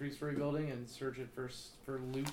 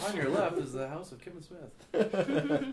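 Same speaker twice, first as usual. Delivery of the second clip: tour guide voice; 4 semitones higher, 3 dB louder, slower than usual. Acted. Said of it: "tour guide voice".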